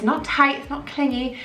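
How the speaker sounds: breathless, gasping between words; out of breath. Real, not acted. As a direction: talk while winded. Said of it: "I'm so out of breath again".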